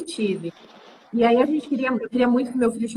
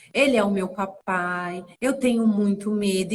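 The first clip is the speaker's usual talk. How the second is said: put-on tender talk to baby; 3 semitones lower than usual. Mother talking to unborn baby.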